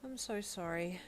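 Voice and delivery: a quiet, heavy-hearted apology; quietly sad. Acted. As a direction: let the sorrow pull it down gently. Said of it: "he stated sadly".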